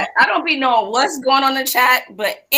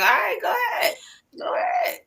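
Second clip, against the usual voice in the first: much higher, playful go ahead; high mock encouragement; 13 semitones higher, 4 dB quieter than usual. Egging on a hyped friend, high playful cheer. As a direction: cheer them on in a squeaky high voice.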